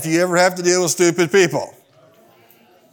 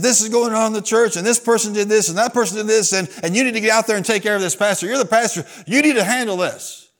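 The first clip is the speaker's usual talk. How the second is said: raised, pressing voice of a complainer; piling up complaints, pitched up; retold insistent demand; 4 semitones higher than usual. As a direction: press the pastor to act. Retold agitated church member demanding action.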